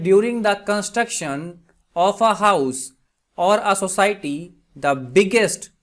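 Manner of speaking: very slow, spaced-out example reading; slow dictation. Shown as a demonstration. Teacher gives students an English translation, slow dictation. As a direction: read it out slowly, phrase by phrase. Reads example sentence slowly.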